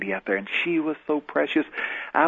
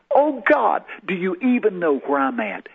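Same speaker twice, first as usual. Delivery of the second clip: desperate cry; 7 semitones higher than usual. Retold or imitated. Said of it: "I cried out in a moment of desperation".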